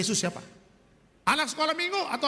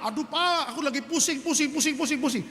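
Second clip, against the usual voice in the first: a mock snappy wife, pitch up; hammed-up irritated whine at her husband; whiny complaint; 3 semitones higher than usual. Wife snapping at husband about his phone, mock irritated whine. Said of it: "Waduh, dia marah-marah".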